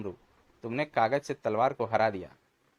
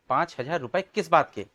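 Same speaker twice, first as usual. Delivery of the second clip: shocked question; 4 semitones higher, 5 dB louder than usual. Acted. Father shocked at bill.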